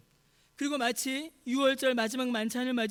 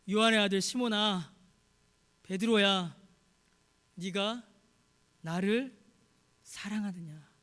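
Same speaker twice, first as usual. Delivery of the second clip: tender questioning; 2 semitones lower, 3 dB louder, slower than usual. Acted. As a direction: call the name, then ask gently. Jesus tenderly questions Peter.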